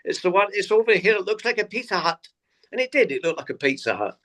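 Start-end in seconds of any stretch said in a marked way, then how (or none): 0.0-1.1 higher, whistling Scottish voice; whistly Scottish accent. Retold or imitated. Old Scottish guy greeting lost comedians, whistly Scottish accent. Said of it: "in the whistly Scottish accent". 1.1-2.3 higher-pitched imitation of a whistly Scotsman; whistly Scottish accent. Old Scottish guy directing comedians to the venue, whistly Scottish accent. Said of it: "in the whistly Scottish accent".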